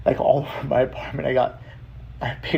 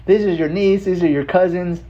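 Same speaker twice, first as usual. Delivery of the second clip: much higher and louder, thrilled; gushing relative voice, pitched way up; excited auntie; 8 semitones higher, 5 dB louder than usual. Retold or imitated. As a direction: present them like a proud auntie. Auntie sending family photos.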